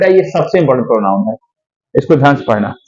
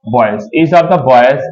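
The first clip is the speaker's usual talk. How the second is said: slow dictation; 4 semitones lower, much slower than usual. Shown as a demonstration. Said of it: "बेटा boy होगा क्या?".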